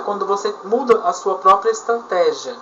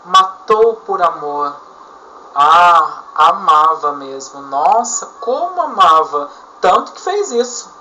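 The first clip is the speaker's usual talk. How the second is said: ironic repetition. Shown as a demonstration. Teacher demonstrating irony to students, mock admiring tone. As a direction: praise him so we hear he hated her. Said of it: "Isso serve de ironia".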